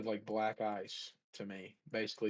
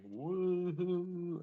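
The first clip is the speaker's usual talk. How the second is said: high whooping concert cheer; excited cheer; 9 semitones higher, 3 dB louder than usual. Retold or imitated. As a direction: cheer like the band just walked on. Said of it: "I was going".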